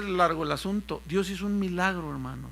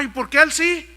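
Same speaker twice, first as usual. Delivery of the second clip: mock indignant whine; 8 semitones higher, 9 dB louder than usual. Mock jealous congregant.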